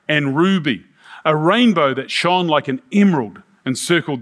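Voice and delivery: measured, emphatic Bible reading; scripture reading. Acted. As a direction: read the vision aloud with weight. Reads scripture aloud.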